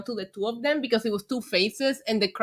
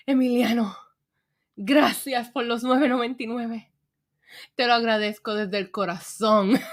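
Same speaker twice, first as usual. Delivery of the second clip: telenovela voice. Acted. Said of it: "you got me over here in telenovela mode".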